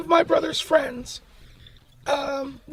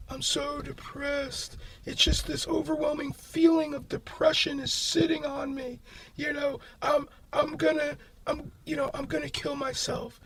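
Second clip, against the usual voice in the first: imitating depressed; 6 dB quieter than usual. Friend's depressed phone call retold.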